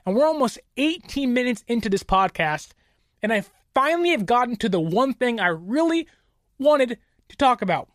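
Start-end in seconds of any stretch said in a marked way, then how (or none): none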